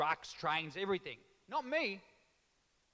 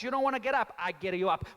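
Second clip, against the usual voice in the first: loud mocking threat; angry dad; 4 dB louder, faster than usual. Italian dad mocks his son's whining. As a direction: throw the words back at him. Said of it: "Straight away".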